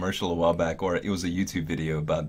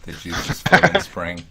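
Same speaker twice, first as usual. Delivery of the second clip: slow, louder teasing echo of "The juices flow in spring"; mock dramatic repeat; 5 dB louder than usual. Shown as a demonstration. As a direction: repeat it like an ad slogan. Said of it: "Can we not use that?".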